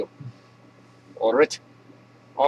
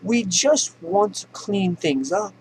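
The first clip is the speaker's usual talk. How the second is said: high, slow Southern spokesman voice; mock Southern accent; 6 semitones higher, much slower than usual. Klan spokesman quoted in the news, mock Southern accent. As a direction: put on a Southern accent, pitched up, drawn out. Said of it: "they were quoted as saying".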